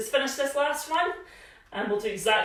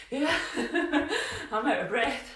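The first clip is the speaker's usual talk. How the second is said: laughing; 4 semitones higher than usual. Real, not acted.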